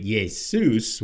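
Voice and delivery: "Jesus" as yay-SOOS, second syllable stressed; Greek pronunciation. Shown as a demonstration. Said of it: "And the Greek Jesus".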